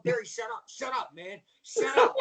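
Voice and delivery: panicked hush. Retold or imitated. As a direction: beg your partner to shut up before it's too late.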